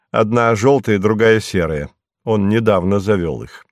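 ordinary delivery

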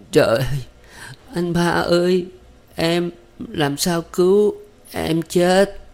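put-on high, faint gasping voice of a wounded young woman, slow and broken; fading words squeezed out between groans; weak broken voice. A narrator's reading. Wounded Thắm gasping to her husband in pain, weak and broken. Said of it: "giọng phèo phào đứt quãng của Thắm".

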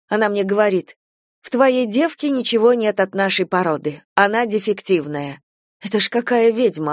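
lightly voiced aggrieved mother venting; indignant chatty friend. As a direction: pour out complaints to a close friend, mildly worked up. Talkative friend's indignant monologue. (слегка возмущённая болтливая подруга)

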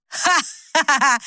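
slow mock hoarse cackle; a slow hammed-up cackle at her own joke; lightly voiced hoarse cackle at her own joke. A narrator's reading. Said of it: "Сима закатилась хриплым смехом".

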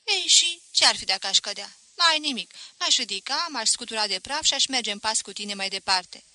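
put-on boy answering Voap, loud and cocky. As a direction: brush off the worry.

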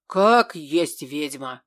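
slow, low, loud curse; angry demon. A narrator's reading. Offended demon curses the laughing girl, slow and loud. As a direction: drag the insult out, furious.

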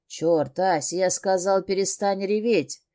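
a hint of a rough male captor, barking the order; angry order. Captor orders crying Asya to stop, mildly angry. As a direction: snap at her to stop crying.

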